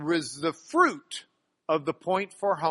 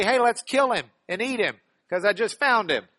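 jokey celebration; 3 semitones higher, 5 dB louder than usual. Acted. Joking retelling of parable.

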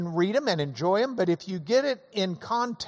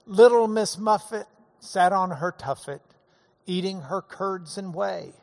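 Dad's silly version. Retold or imitated. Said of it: "If Dad told them to us, they would be more along the lines of".

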